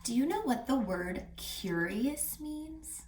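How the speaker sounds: soft conspiratorial whisper. Real, not acted. Reading teacher whispers a question to listeners. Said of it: "teacher whispers question to kids".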